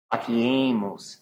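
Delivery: faciemus with the E drawn out; slow, stretched faciemus; extended vowel. Shown as a demonstration. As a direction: hold the long E in faciemus, slowly. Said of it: "Try to extend that out as much as you can".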